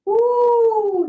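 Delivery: high, loud whoop of delight; excited whoop. Real, not acted. Instructor whooping to the class during a stretch, excited. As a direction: let out a joyful high woo.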